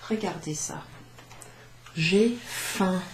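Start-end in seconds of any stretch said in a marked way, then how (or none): 2.0-3.0 louder, mimed hunger in J'ai faim; acting hungry. Shown as a demonstration. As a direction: act out being hungry. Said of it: "Can you see what I'm doing there".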